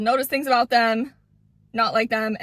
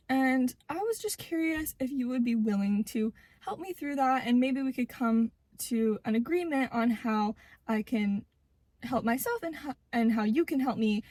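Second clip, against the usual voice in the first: softer, measured request with pauses; calm and polite; 3 dB quieter than usual. Acted. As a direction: raise it gently and politely. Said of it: "very, very calmly and politely".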